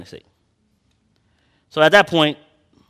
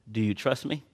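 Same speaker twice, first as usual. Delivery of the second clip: a hushed, much softer question; soft voice of God; 3 semitones lower, 9 dB quieter than usual. Acted. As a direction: ask it gently, almost inwardly. The Lord's quiet question.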